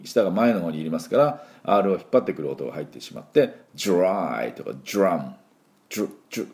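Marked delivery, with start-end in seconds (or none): 5.9-6.5 "jut" friction sound. Shown as a demonstration. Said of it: "この音が入ります".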